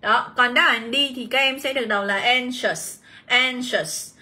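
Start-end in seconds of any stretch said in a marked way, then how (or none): 2.2-3.0 "anxious" stressed on ANX; stress on first syllable. Shown as a demonstration. Teacher reading option D, "anxious" stressed on its first syllable. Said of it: "nhấn vào âm một". 3.2-4.1 "anxious" stressed on ANX; stress on first syllable. Shown as a demonstration. Teacher reading option D, "anxious" stressed on its first syllable. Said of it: "nhận trọng âm và âm e bẹt này".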